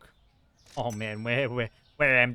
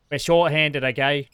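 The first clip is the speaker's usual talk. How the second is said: louder, pushed-up shopkeeper protest; mock exasperated shout; 3 semitones higher, 10 dB louder than usual. Shopkeeper to a grumbling customer, mock exasperated shout. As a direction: throw it back at the complaining customer.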